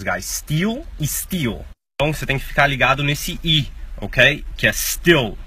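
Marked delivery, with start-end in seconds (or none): 0.2-1.6 "steel e steel" slow, both with a long ee; same long ee twice. Shown as a demonstration. Teacher showing "steel" and "steal" sound the same. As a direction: say "steel e steel" identically and slowly. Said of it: "A pronúncia é idêntica".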